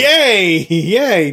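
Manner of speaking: high squealed mock cheer; playful cheer. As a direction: cheer it like a party. Mock cheer at good ending.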